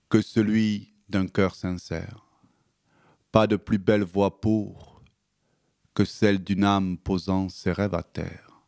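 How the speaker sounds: measured, rhythmic slam reading with long pauses; poem recitation. Acted. Poet reciting his slam on the radio, measured and rhythmic. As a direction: perform the poem, letting each image land.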